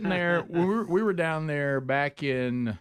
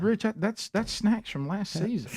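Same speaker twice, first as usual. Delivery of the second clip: retold protest; 7 semitones higher than usual.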